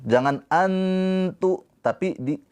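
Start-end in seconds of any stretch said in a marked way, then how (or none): 0.5-1.7 high, drawn-out "antu", tongue stuck on the n; n pressed shut. Shown as a demonstration. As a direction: chant "antu" with the tongue fully touching on n. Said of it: "Tapi jangan ditempelin. Jangan".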